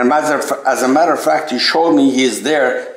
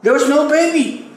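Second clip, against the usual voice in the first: amazed insistence; 9 semitones higher than usual. Real, not acted. Insists no baby was there.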